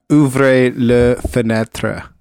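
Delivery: slow, deliberate French; French accent. Acted. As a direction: speak it like a Parisian. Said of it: "Did I get you on the French?".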